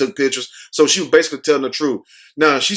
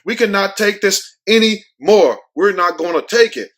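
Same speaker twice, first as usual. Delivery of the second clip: higher, exasperated mock attendant voice; fed-up attendants; 4 semitones higher than usual. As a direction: whine it like fed-up stewardesses. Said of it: "they said".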